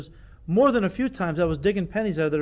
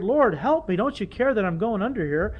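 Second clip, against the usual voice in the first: raised, pleading cry to God, higher and louder; desperate cry for help; 5 semitones higher, 4 dB louder than usual. Retold or imitated. Preacher voicing a sinking believer crying out to the Lord, desperate and raised. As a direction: cry out like a drowning man begging for help. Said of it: "I'm crying out to the Lord".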